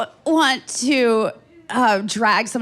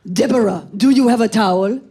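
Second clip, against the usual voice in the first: mild mock call from the bathroom, a bit louder; 4 dB louder than usual. Date calls out from the bathroom for a towel, mildly loud. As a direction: shout it through the bathroom door. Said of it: "I heard from the bathroom".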